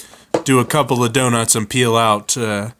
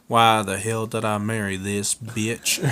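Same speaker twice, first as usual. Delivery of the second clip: softer grumble to himself; muttered under breath; 5 dB quieter than usual. Acted. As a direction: mutter it so she can't hear. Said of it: "he mutters under his breath".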